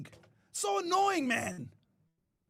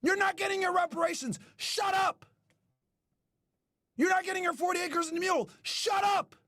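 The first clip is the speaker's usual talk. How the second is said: pretend scolding. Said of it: "tell these motherfuckers".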